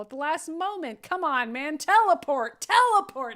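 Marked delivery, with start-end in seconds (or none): 1.0-1.8 louder, exasperated urging. Real, not acted. Urging the onscreen hero to act, louder. 1.8-3.4 higher, louder shouted command; exasperated shout. Real, not acted. Yelling at Nightcrawler to just teleport, loud.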